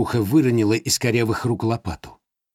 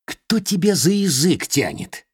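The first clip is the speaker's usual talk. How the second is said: grumbling; 7 semitones higher than usual. Acted. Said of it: "сердито проворчал".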